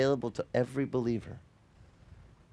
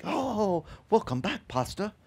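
put-on Jamaican accent; 6 semitones higher than usual. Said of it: "That's how he says it".

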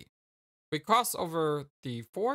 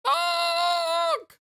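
high shouted clown honk; silly clown; 8 dB louder than usual. Pretend. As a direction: blast out a crazed clown honk. Voicing the clown character.

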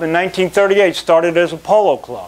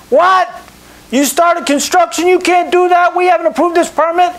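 outraged official; 14 semitones higher than usual. Retold or imitated. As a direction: play the permit clerk, shocked and indignant. Outraged city permit clerk.

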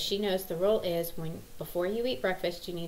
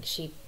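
mock shriek; 2 semitones lower, 4 dB quieter than usual. Daughter's outburst at good morning imitated.

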